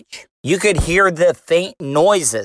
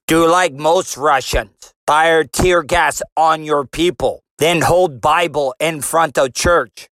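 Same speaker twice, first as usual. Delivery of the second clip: a hint of a clumsy Russian accent; mildly put-on, caveman-like Russian accent. Putin advising Trump by phone, weak Russian accent. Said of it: "my Russian accent sound like a caveman".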